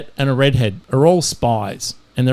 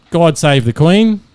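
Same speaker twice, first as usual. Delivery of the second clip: louder, slow proclamation; mock patriotic yell; 3 semitones higher, 5 dB louder, slower than usual. Joke's Brit yelling before he shoots himself, mock patriotic yell. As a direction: call it out grandly and slowly. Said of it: "puts it to his head and yells".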